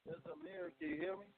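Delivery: faint, distant phone line; barely audible. Real, not acted. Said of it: "Ooh, barely".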